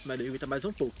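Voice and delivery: trembling voice from the cold; shivering. Real, not acted. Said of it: "eu tô tremendo muito".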